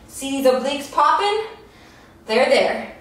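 normal talking voice

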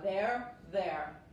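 "Their" said like "there"; teacher models homophones; pronunciation demo. Shown as a demonstration. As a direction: repeat "Their" slowly, same sound. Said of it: "se pronuncian igual".

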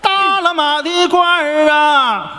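slow drawn-out hawker's call; street vendor's cry. Shown as a demonstration. Shopkeeper shows the apprentice the call, slow drawn-out hawking. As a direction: cry it out like selling in the market. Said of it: "就这么吆喝啊".

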